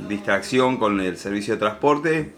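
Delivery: talking while chewing; words around a bite of food; mouth full. Real, not acted. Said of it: "Vino con hambre porque está comiendo". (con la boca llena)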